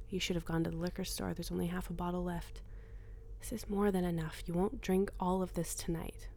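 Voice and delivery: hushed inner voice, close to the ear; a voice inside her head, whispering; whispered inner voice. Acted.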